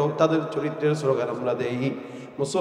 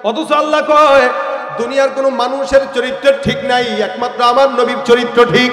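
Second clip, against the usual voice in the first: loud, rousing sermon delivery; full-force preaching; 9 semitones higher, 8 dB louder than usual. Real, not acted. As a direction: preach it out, stretching the line endings. (জোরালো ওয়াজের সুরে)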